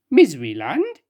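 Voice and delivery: rising, puzzled "Miseryland?"; surprised question. Acted. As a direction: echo "Miseryland?" in disbelief.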